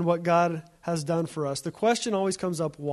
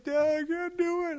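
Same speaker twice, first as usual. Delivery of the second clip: put-on high whiny kid voice, much higher; tired young son; 11 semitones higher, 3 dB quieter than usual. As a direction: whine like a worn-out seven-year-old. Preacher voices his tired son.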